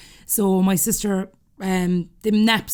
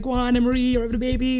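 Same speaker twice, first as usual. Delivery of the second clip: raised-pitch retold cheer; 4 semitones higher, faster than usual. Aunt cheering on sister at baby scan, cheering.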